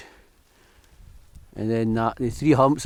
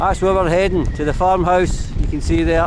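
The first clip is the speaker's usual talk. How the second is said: raised voice against the wind; shouting over wind; 5 semitones higher than usual. Real, not acted. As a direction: call out over gusts. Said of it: "If you can hear me over the wind".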